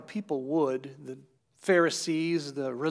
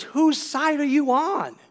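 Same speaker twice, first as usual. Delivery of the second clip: higher, louder challenge; a pointed rebuke to a disciple; sharp rebuke; 9 semitones higher, 5 dB louder than usual. Retold or imitated. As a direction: throw the question at him like an accusation. Jesus rebukes Peter.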